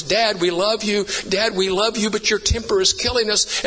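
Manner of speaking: put-on a child's mild imploring of Dad; retold earnest plea; pleading son. Boy pleading with his father.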